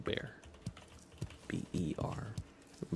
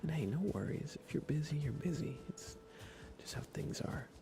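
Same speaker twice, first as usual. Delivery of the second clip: bright, higher-pitched greeting; light up to greet a friend; cheerful welcome; 8 semitones higher than usual. Real, not acted. Welcoming a Discord booster by name, cheerful and bright.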